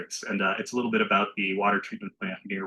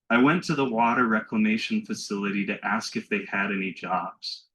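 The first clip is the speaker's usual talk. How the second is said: poetry reading. Acted. Reads own poem aloud.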